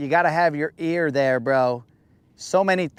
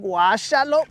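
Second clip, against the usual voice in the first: approving; 5 semitones higher than usual. Retold or imitated. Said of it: "vibing to the way I was getting down".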